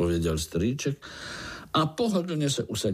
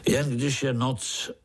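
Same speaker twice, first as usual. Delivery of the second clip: sinister voice; 5 semitones higher than usual. Acted. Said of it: "řekl strýček zlověstným hlasem".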